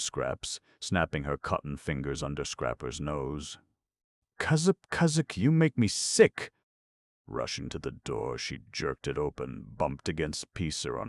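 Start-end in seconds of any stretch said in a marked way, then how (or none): 4.4-6.5 furious shriek. A narrator's reading. Scraps furious insult.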